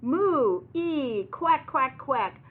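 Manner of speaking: high, loud moo, squeal and quacks; playful storybook animal chorus; farm animal noises. Acted. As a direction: call out like each animal in turn. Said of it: "the animals say".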